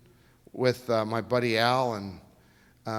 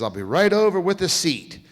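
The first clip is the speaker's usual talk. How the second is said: much louder and higher, eager; excited yes, voice raised; thrilled; 6 semitones higher, 8 dB louder than usual. Retold or imitated. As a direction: jump at the dream offer. Thrilled acceptance of offer.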